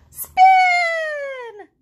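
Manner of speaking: high, loud cry of jump; shouted command. Acted. Piggy yells the dance move at Gerald. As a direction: fling the word out.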